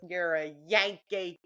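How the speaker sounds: slow, lightly put-on Southern drawl imitating an old man; old Southern man at the post office, light drawl. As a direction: drag out Yankee in a mild Southern drawl. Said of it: "in quite a drawl".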